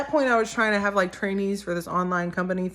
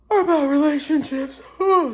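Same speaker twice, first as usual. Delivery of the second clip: sudden high outburst; 9 semitones higher, 6 dB louder than usual. Real, not acted.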